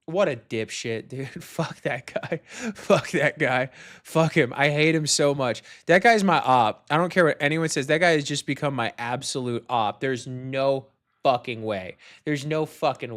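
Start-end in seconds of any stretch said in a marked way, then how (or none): none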